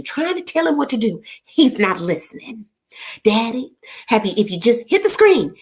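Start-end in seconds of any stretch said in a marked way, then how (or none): 3.2-5.5 exasperated instructions. Retold or imitated. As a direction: coach a stubborn dad through it. Instructing daddy over phone.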